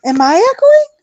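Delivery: whispered. Real, not acted. Checking audio after earbuds.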